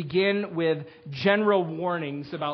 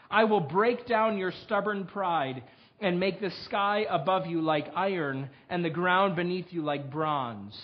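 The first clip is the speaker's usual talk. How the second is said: scripture reading. Acted. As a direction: read God's warnings with weight. Reads next curse passage.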